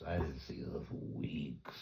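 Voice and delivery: soft unvoiced whisper; hushed aside. Real, not acted. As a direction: drop to a whisper for emphasis.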